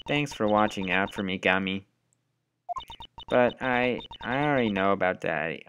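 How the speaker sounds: put-on soft, small sad girl's voice; hushed sad child; quiet little girl. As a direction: bravely admit she knows. Voicing grieving little girl.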